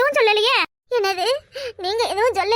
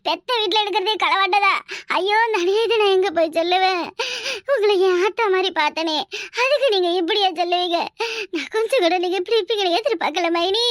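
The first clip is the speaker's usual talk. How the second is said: hurt, mock-tearful reproach; feigned sobbing. Woman reproaching sister-in-law over theft accusation, theatrical crying. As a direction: break into put-on sobs between phrases.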